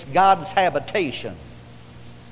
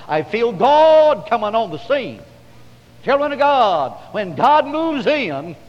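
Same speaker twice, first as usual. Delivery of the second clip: loud, raised revival preaching; full-force preaching; 5 semitones higher, 6 dB louder than usual. Real, not acted. Preacher telling how God came on the service, full-force preaching. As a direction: belt out God's arrival, stretching the big words.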